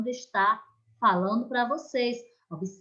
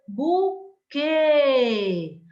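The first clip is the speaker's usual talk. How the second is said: buquê with QUÊ louder and higher; teacher modelling the stressed last syllable; 3 semitones higher, 4 dB louder than usual. Shown as a demonstration. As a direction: punch the final QUÊ. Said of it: "nossa última palavra".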